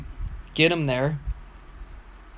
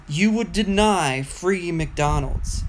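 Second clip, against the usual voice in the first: put-on slow slurred drunk pleading; lightly voiced drunk coworker; 2 semitones higher, much slower than usual. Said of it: "in a drunk voice".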